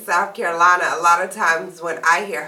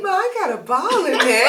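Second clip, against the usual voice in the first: put-on little boy voice; 8 semitones higher than usual. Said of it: "He was like".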